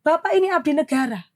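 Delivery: firm reproachful retort; retold scolding. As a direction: lecture the officer sharply. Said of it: "ini mulut saya sudah jelek". (menegur tegas dan ketus)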